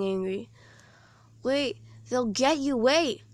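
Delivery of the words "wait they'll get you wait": calling out. Acted. Calling after running friend.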